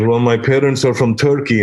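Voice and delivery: lightly mimicked foreign-accented English; mock foreign accent; imitated foreign accent. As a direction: imitate a European immigrant's accent. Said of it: "he had an accent".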